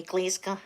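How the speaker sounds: "Glasgow" clipped to "Gleska", the Ned way. Shown as a demonstration. Showing viewers the Ned way to say it, "Gleska". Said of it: "the Ned way".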